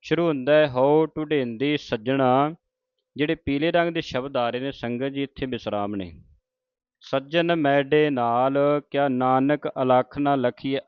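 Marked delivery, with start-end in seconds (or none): 0.7-2.6 slow recitation. Acted. Reciting Gurbani line. 7.0-10.8 slow recitation. Acted. Reciting Gurbani line.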